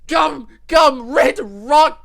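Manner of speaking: very high, loud battle cry; attack call shout. Real, not acted. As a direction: yell the attack name like Luffy. Yelling the attack name.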